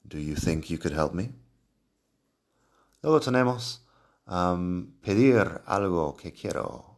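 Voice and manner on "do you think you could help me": polite request. Shown as a demonstration. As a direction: ask gently, as a favour. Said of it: "Es mucho más cortés".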